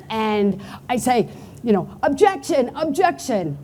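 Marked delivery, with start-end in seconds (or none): 2.0-3.6 hammed-up courtroom objection, a bit higher; mock judge call. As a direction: play-act a judge banging the gavel. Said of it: "I'm doing the gavel thing".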